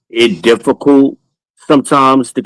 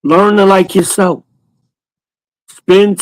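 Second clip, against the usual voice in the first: emphatic advice; 9 semitones higher than usual. Acted. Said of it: "advising the fellas".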